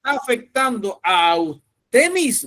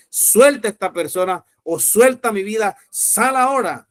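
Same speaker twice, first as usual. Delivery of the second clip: commanding with authority. Shown as a demonstration. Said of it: "ordénele así con autoridad".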